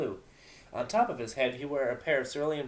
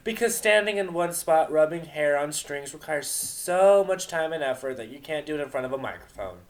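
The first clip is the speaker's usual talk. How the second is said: 1 mocking sarcasm; 3 semitones higher, 5 dB louder than usual.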